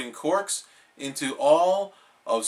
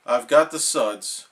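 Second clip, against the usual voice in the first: sadly; 2 semitones lower, 4 dB louder than usual. Acted. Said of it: "said SpongeBob sadly".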